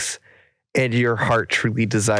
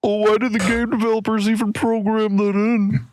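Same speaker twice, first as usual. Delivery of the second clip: incredulous; 11 semitones higher than usual. Real, not acted. Incredulous question, laughing.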